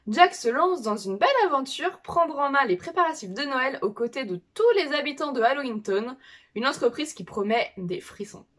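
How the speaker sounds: lightly storytelling read-aloud; reading a synopsis aloud. Acted. Vlogger summing up a manga for viewers, read-aloud voice. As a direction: read it out like a back-cover blurb.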